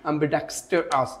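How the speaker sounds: ambidextrous slowly, in separated syllables; broken up. Shown as a demonstration. Teacher showing a hard word, slowly broken up. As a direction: pause between am-bi, dex, ter and ous in ambidextrous. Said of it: "ভেঙে ভেঙে যদি উচ্চারণ".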